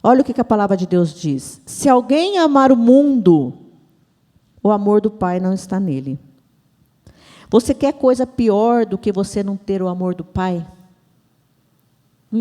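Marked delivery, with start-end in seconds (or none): 1.7-6.2 preacher declaring the Word; scripture proclamation. Real, not acted. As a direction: proclaim it firmly, stretching the key words.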